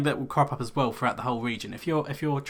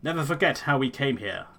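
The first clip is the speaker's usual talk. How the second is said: Elder in a lightly put-on rustic accent; solemn clan elder in a hammed-up accent; a hint of a bad fantasy accent. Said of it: "this fucking accent I'm going for".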